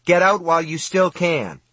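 high, desperate father's plea; acted anguished call; anxious cry. A narrator's reading. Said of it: "His voice was hoarse with tears and anxiety".

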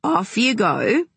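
sing-out firm send-off. A narrator's reading. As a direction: send her off firmly, drawing it out. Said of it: "said Di firmly".

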